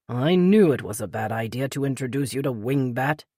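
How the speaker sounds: lightly voiced older British man; a gentle hint of the polite Peter; older British gentleman, lightly voiced; Peter's voice. A narrator's reading. Peter's voice in read story.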